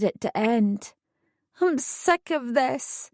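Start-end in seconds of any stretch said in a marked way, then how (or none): 1.6-3.1 slow, soft, high tearful plea; a mild sob of despair to Darren; sobbing. Acted. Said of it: "I sobbed to Darren".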